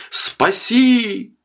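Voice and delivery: high, drawn-out plea; one last call for help from afar; distant cry. A narrator's reading. Drowning man begs from the drifting boat, distant desperate plea. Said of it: "донеслось к нему глухо, как с крыши".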